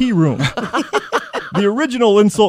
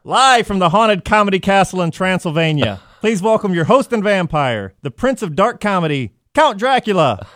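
announcer. Acted. Roast host introduction.

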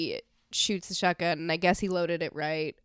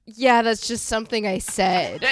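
laughing; 4 semitones higher, 8 dB louder than usual. Retold or imitated. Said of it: "he says".

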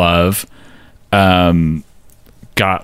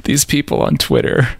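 mock complaint; 7 semitones higher than usual. Host imagining the singer overreacting to Twitter trolls, mock complaint. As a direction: act out an overreaction, pitched up.

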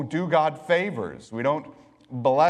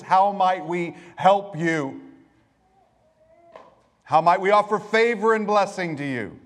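louder, higher, eager pleading servants; eager angelic servants; 3 semitones higher, 4 dB louder than usual. Retold or imitated. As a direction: offer yourself up like anxious attendants.

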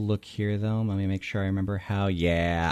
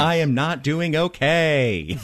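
slightly raised, mock-pained knight; voiced wounded knight; 5 semitones higher than usual. Game master answers as the battered enemy, mock pained. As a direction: lightly play a knight admitting he's hurt.

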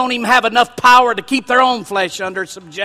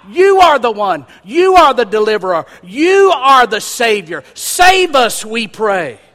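put-on loud, fervent cry of the children; 5 dB louder than usual. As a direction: call out like children begging to be saved. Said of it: "The children were crying out".

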